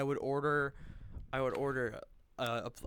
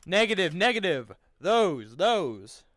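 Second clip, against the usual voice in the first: loud firm correction, higher pitch; shouting; 5 semitones higher, 10 dB louder, slower than usual. Real, not acted. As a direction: bark it out so they hear. Correcting squad from a distance.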